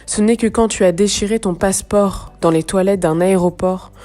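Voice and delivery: measured, slightly projected poetry recitation; deliberate phrases set apart by pauses; poem reading. Acted. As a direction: read the verse gravely, pausing between lines. Reads the poem aloud.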